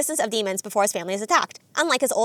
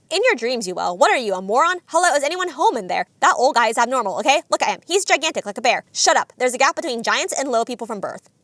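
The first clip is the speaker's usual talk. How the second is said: mock scolding, mildly raised voice; Zenitsu. Zenitsu berates Tanjiro about the boulder, mock exasperated. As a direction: imitate an exasperated telling-off. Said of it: "Zenitsu berates Tanjiro".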